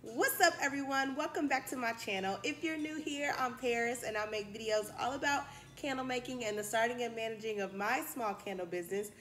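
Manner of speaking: breathless, panting between phrases; out of breath. Real, not acted. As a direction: talk while still catching breath. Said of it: "Jesus, I'm out of breath".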